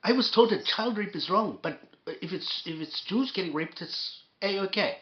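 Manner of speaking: lightly done Scottish accent, mocking; mock the Scottish journalist's accent. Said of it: "I wanna do his accent".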